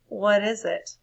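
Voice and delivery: tired of the ideas, flat and fed up; reread differently. Shown as a demonstration. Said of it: "Oh, I need to read that differently".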